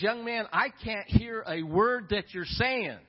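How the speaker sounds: a mild mock old fisherman calling over, deliberate; old man can't hear. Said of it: "the old man says".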